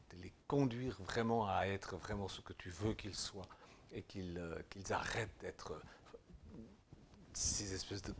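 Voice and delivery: soft, hushed praying voice; prayer. Acted. Preacher praying for his brothers and sisters, hushed. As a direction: pray quietly and intimately.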